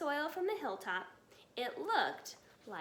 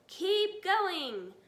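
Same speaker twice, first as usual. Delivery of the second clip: higher, louder call; shouted; 6 semitones higher, 6 dB louder than usual. A narrator's reading. Bogus shouting to Bunce and Bean. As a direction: spur the diggers on. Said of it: "Bogus shouted".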